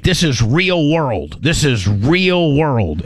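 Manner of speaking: REAL drawn out slowly each time; insistent tower controller. Retold or imitated. Tower telling disbelieving military it's happening, slow stress on REAL. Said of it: "and the tower's like".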